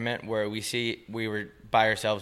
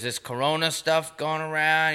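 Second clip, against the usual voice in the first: higher, drawn-out mock driver voice; Uber driver; 5 semitones higher than usual. Uber driver bringing up Corona to a passenger, higher drawn-out mimicry. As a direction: imitate an oversharing driver, slow and raised. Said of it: "He goes".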